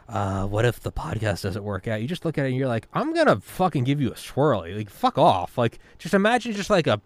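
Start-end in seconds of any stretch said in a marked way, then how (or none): 0.1-2.0 a lightly voiced whiny nerd; a hint of a pot-bellied nerd fretting; nerdy doubt voice. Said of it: "like, a nerd". 2.9-5.6 a touch of bully bravado; slightly louder mock threat to the nerd; hammed-up swirly threat; mock tough threat.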